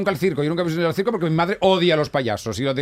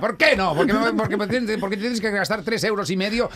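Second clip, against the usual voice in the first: mock indignant protest; 6 semitones higher than usual. Acts out airport security quarrel.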